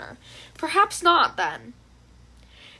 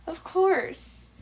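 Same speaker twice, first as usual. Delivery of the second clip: reassuring; 5 semitones higher than usual. A narrator's reading. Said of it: "Izuku reassures him with a gentle smile".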